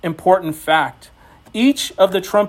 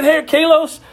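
calling out higher and louder; cheerful call; 7 semitones higher, 3 dB louder than usual. Retold or imitated. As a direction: hand over the treat with a bright shout. Calling son to give cookie.

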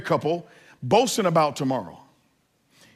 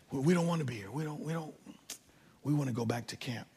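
put-on much softer, weepy child voice; mock sobbing girls; 10 dB quieter than usual. Daughters sobbing to their dad about leaving camp, mock weepy. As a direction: whimper it like a crying little girl. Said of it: "just sobbing".

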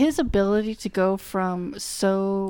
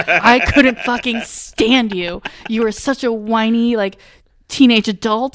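louder, slowed rant; playful loud rant at the character; mock rant; 7 dB louder than usual. Real, not acted. Ranting at a character.

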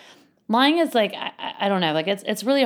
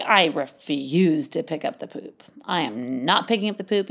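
mock stubborn refusal; 2 semitones lower than usual. Kid refusing stable chores, mock stubborn.

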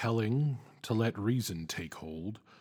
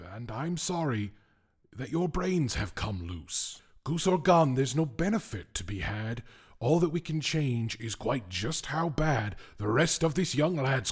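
a hint of an exasperated captive, raised; lightly voiced captive; 4 semitones higher, 3 dB louder than usual. The tied man argues with the whim, mildly exasperated. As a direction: argue back, mildly fed up.

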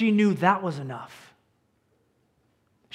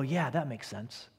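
readers agreeing; 5 semitones lower, 8 dB quieter than usual. Retold or imitated. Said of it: "they read and go".

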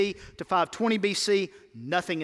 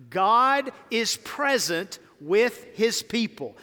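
slow, higher, louder declaration of God; slow emphatic refrain; 4 semitones higher, 4 dB louder, slower than usual. Shown as a demonstration. Preacher calling the church to repeat, slow and loud. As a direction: lead the church in a proclaimed refrain. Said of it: "Say that with me".

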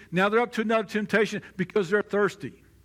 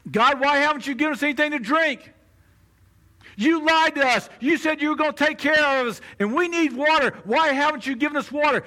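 taunting; 4 semitones higher than usual. Acted. Thirsty Israelites grumbling at God, taunting and demanding. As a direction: needle God, demanding what's owed. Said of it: "Taunt, taunt, taunt".

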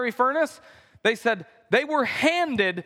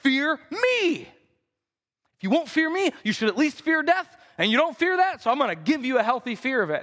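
enraged king; 4 semitones higher than usual. Retold or imitated. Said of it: "is contorted with rage".

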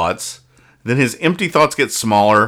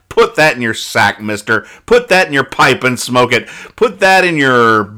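teasing, slower scolding tag line; playful mock lecture; 3 dB louder than usual. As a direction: wag a finger at the reader, half joking. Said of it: "mock scolding sign-off".

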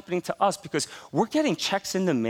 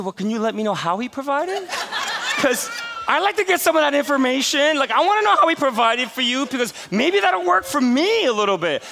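laughing; 9 semitones higher, 5 dB louder than usual. Real, not acted. Laughing at pastor's vague answer.

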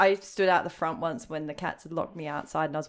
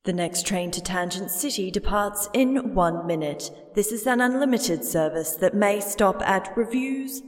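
train announcement. Acted. Reads a mock train announcement.

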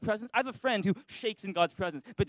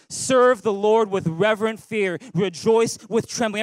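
louder, slow read-aloud; 7 dB louder than usual. Real, not acted. Preacher reads a psalm aloud with the church, loud. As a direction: read it out with the congregation. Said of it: "read it with me".

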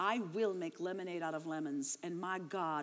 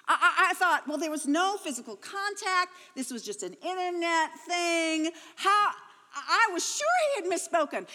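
much higher and louder, half laughing, half crying; laughing through tears; 9 semitones higher, 9 dB louder than usual. Real, not acted. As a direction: laugh at how naive you were while close to tears. Laughing at her own naivety.

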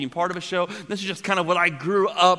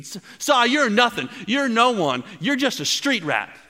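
bully voice; 6 semitones higher than usual. Retold or imitated. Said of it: "and he said".

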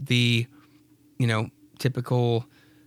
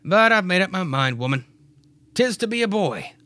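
Clyde's voice; 6 semitones higher than usual. Acted. Clyde insisting to Mary it will be a boy, lightly voiced. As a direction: insist firmly to your wife. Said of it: "So Clyde says".

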